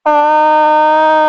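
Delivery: long, held monotone aah; long yell. Real, not acted. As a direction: hold one note in a drawn-out yell. Long held yell during game.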